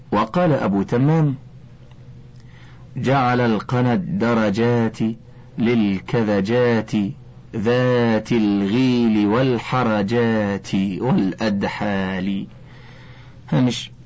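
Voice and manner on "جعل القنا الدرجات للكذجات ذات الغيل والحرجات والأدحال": slow, measured poetry reading; verse recitation. Shown as a demonstration. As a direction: draw out the long vowels of the verse. (إلقاء شعري بطيء)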